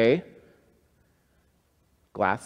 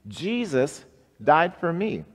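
call-and-response; 8 semitones higher, 3 dB louder than usual. Shown as a demonstration. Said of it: "Say that with me".

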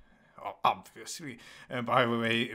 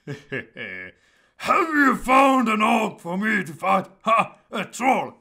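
high, loud shouted character voice, drawn out; young Conrad's funny voice; 8 semitones higher, 11 dB louder than usual. Pretend. Voicing young fighter spoiling for a fight, high loud shout. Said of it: "so I will just use that voice".

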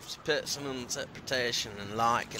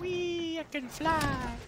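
high giddy squeal; 14 semitones higher, 7 dB quieter, slower than usual. Real, not acted. Gliding joyfully.

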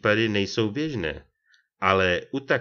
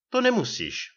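growling; 13 semitones higher than usual. A narrator's reading. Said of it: "vrčel důchodce".

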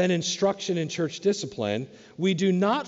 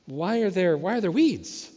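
much higher, eager mock praise; excited praise; 7 semitones higher than usual. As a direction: gush with rising admiration. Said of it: "they say".

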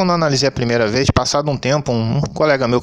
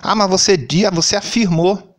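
mocking whiny critic; 7 semitones higher than usual. Mocking critics of his opinion.

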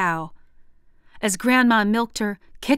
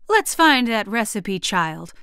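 crowing. Acted. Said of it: "she crowed".

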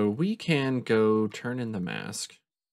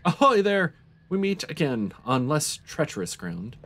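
hearty character voice; 6 semitones higher, 5 dB louder than usual. Acted. Voicing Dylan's greeting.

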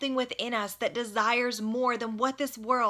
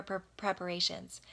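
whispered; 3 semitones lower, 5 dB quieter than usual. Real, not acted. Drops word to a whisper.

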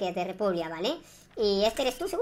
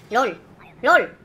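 excited shout; 9 dB louder than usual. Real, not acted. Shocked reaction during gameplay.

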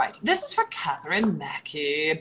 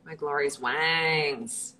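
pompous vain hero; 3 semitones lower, slower than usual. Acted. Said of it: "What's my wings line?".

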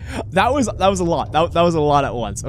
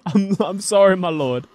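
hammed-up pleading apology, slightly raised; mock prayer; 4 semitones higher than usual. Player begging the lord for mercy in a game, mock-penitent. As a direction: play at begging God's pardon. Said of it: "let me pray to you".

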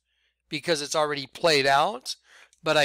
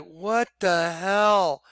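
confused; 2 semitones higher, much slower than usual. Retold or imitated. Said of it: "And I was like".

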